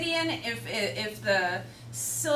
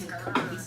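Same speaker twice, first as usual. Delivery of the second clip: growled R; 7 semitones lower, 4 dB quieter than usual. Retold or imitated. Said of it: "all my R's".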